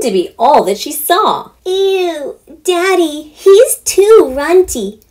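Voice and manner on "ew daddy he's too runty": put-on high, whiny begging girl voice, loud on runty; pleading preteen girl. Daughter begging her father to keep the runt, high and whiny. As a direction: wheedle Daddy like a spoiled daughter.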